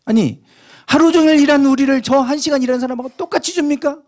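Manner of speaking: acted angry complaint, pitched high; high, heated protest of an aggrieved worker; indignant protest. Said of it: "지금 따지는 거예요".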